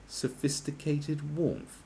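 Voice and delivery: "sophisticated warmth" drawn out slowly in scorn; mocking drawl. Shown as a demonstration. Scoffing at the candle blurb, slowly mocking "sophisticated warmth". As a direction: savour "sophisticated warmth" with slow mock grandeur. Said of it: "There's nothing sophisticated about a vagina".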